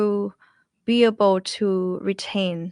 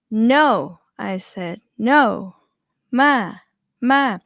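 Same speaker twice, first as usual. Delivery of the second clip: louder "No" and falling "Ma"; mock yell; 2 semitones higher, 4 dB louder, much slower than usual. Shown as a demonstration. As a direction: say it like scolding someone. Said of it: "when you try to yell".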